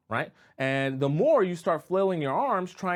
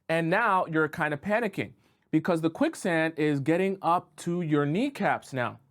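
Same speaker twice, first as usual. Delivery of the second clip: ordinary talk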